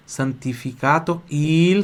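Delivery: slow Italian, lingering on the L of "il"; deliberate pronunciation model; piece by piece. Shown as a demonstration. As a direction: draw out each word for repeating. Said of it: "Atenção pro som do L aqui".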